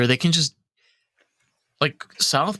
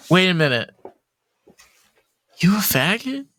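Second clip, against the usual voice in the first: imitating the teacher; 4 semitones higher than usual. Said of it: "exactly like that".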